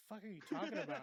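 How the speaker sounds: loud, put-on voice of annoyed man; mock outraged quote; indignant retort. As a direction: snap back in a character voice. Retold indignant arrested man.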